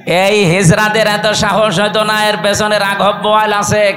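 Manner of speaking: rising shouted sermon; fiery preaching. Real, not acted. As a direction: preach it hard to the crowd. Preaching at full force.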